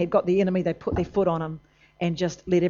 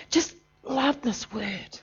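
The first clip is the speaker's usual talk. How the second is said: soft; 4 semitones higher, 7 dB quieter, much slower than usual. Acted. Sudden soft, slow line.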